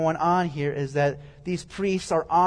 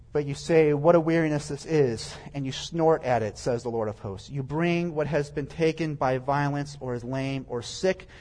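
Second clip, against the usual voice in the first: lower, measured reading voice; scripture reading; 3 semitones lower than usual. Acted. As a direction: read the verses out evenly, dropping low at each attribution. Reads scripture aloud.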